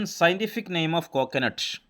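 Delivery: each word drawn out slowly for students to copy; slow classroom dictation of a question. Shown as a demonstration. Teacher reading out quiz question.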